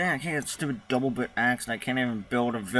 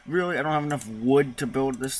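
sharp high incredulous really; disbelieving the game won't let him build; indignant surprise; 3 semitones higher, 4 dB louder than usual. Real, not acted. Player annoyed at the game, indignant surprise.

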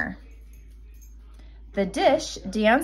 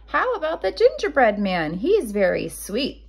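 Grandma; 2 semitones higher than usual. Acted. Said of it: "said Grandma".

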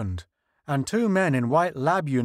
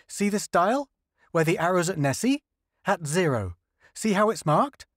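higher, earnest explaining scientist; lightly voiced eager linguist, pitched up; 6 semitones higher than usual. Linguist explains the alien dials to the crew, higher earnest voice.

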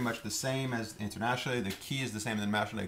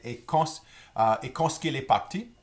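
modeled question; 5 semitones higher, 6 dB louder than usual. Shown as a demonstration. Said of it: "So you can say".

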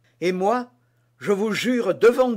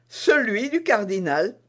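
lightly raised, composed reply; calm confirmation; 4 semitones higher, 3 dB louder than usual. Acted. Constance answering D'Artagnan, calmly confirming the purse. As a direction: confirm it simply, no laughter. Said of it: "répondit madame Bonacieux".

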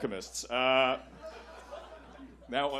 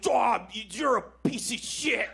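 mock dirty talk; 7 semitones higher, 3 dB louder, slower than usual. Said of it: "dirty talk".

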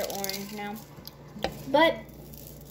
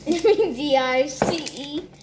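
spelling it out letter by letter, louder; 3 semitones higher, 5 dB louder than usual. Real, not acted. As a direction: spell each letter out clearly. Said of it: "Why are you spelling it?".

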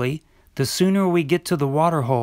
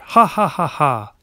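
hearty laugh. Acted. Bravado laugh at danger.

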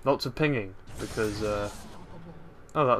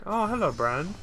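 mock greeting; 8 semitones higher than usual. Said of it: "And I'm like".

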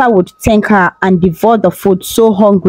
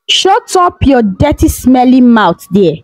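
harsh order; 3 semitones higher than usual. Acted. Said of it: "the queen ordered".

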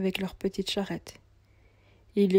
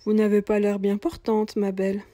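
put-on old cobbler, concerned; 6 dB louder than usual. Cobbler voiced in the story.

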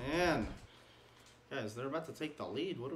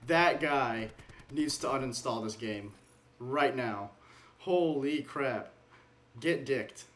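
raging gamer; 6 dB louder than usual. Real, not acted. Player raging over enemy player.

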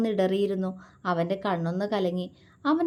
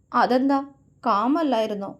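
tearful pout, a bit louder; lips trembling; 4 semitones higher, 4 dB louder than usual. Acted. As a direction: ask with quivering lips. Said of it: "ചുണ്ട് വിതുമ്പിക്കൊണ്ട് ചോദിച്ചു".

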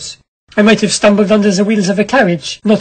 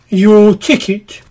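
lightly voiced doorkeeper; much slower than usual. Doorkeeper demands ticket.

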